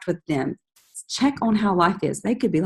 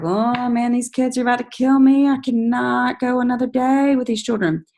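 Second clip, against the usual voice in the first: frazzled mom venting; 6 semitones higher than usual. Retold or imitated. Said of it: "when our friends are like".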